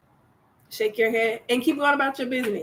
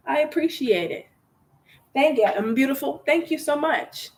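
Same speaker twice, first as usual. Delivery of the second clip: gracious thanks; 4 semitones higher than usual. Shown as a demonstration. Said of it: "Somebody gives you a compliment, thank them".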